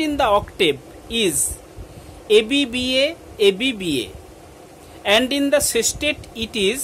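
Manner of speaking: deliberate read-out with pauses between phrases; dictation reading. Acted. Teacher giving the rhyme scheme to pupils, deliberate dictation. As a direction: spell out the answer for students copying it.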